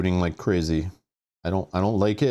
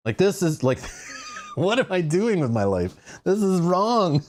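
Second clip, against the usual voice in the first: exasperated outburst; 9 semitones higher than usual. Real, not acted. Panicking at the game state.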